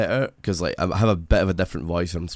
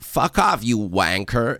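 mock American twang on "wanker"; American saying wanker; much slower than usual. Imitating an American swearing at someone in British slang. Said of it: "an American does use it".

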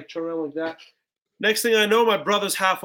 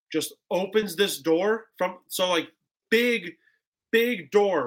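ordinary talk, nothing marked

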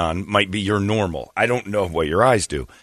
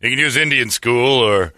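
lightly voiced radio traffic read; mild radio announcer impression; traffic reporter voice; 4 semitones higher than usual. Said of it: "the traffic guy never says".

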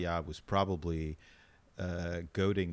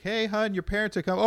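high-pitched mom voice, louder; man doing a woman's voice; 6 dB louder, faster than usual. Retold or imitated. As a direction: mimic a mom calling out, high. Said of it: "It's a good impression of my mom".

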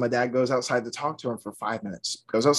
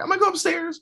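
imitating panicked cousin; faster than usual. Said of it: "my cousin's just sweating".

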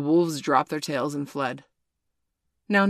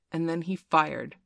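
usual speaking voice

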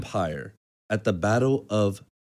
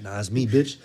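mosquito voice. Retold or imitated. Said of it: "I say this in my mosquito voice".

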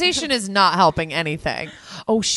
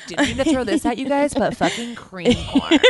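playful mock announcement, slightly raised pitch; imitating Christy; 4 semitones higher than usual. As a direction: act out a friend's big reveal, breaking into a laugh at the end. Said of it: "Christy's gonna be like".

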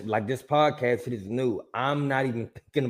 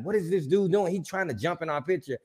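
higher-pitched mock indignation; retold fury; 5 semitones higher than usual. Recounting a dude jumping into the picture, indignant fury. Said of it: "And I'm so furious".

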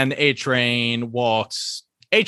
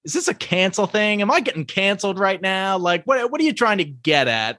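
higher, mock indignant whine; 6 semitones higher than usual. A-Train protests being canceled, higher mock indignant voice. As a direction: play the offended guest. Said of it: "and he's like".

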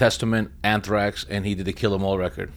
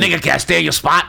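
mock refusal; 7 semitones higher, 6 dB louder than usual. Mocking a host turning them away.

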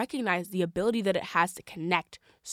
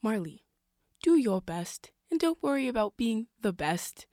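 slow, gentle mom voice; a light take on mom's advice; 3 semitones higher than usual. Retold or imitated. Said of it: "I'm gonna put on my mom voice".

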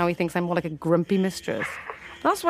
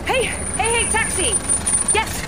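hailing a taxi; 12 semitones higher than usual. Real, not acted. Calling out to a taxi.

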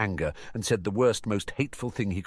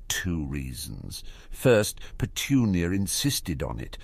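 composed after tears; slower than usual. Acted. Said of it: "wiped a tear, deep breath".

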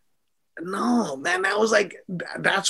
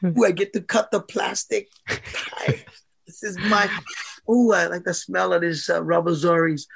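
delighted. Pretend. Boxer acting out buying new slippers, savouring delight. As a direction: relish each word like unwrapping a treat.

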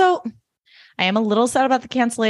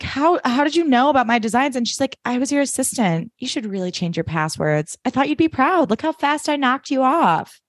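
acted exchange; 6 semitones higher than usual. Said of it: "Kiki's like".

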